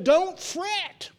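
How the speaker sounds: Don't fret cried out high; preacher's ringing high cry; high shout. Acted. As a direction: shout it up to the rafters. Preacher voicing God's command.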